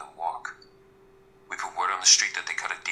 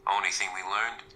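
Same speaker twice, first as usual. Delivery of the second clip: bad Irish accent. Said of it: "the worst Irish accent you'll ever hear".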